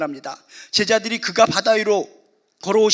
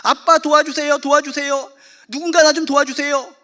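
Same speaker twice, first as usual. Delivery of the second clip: put-on child's cry for help; 5 semitones higher, 5 dB louder than usual. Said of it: "무서워가지고 소리를 지릅니다".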